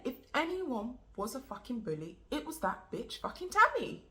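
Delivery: heated, emphatic insistence, rising at the end; indignant defence of a friend, pitch jumping up. Acted. Indignantly defends her accused friend.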